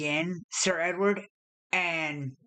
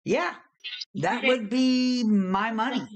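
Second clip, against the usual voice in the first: high, louder indignant NPC; talking tree; 5 semitones higher, 3 dB louder than usual. Acted. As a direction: protest that it's your money. NPC protesting.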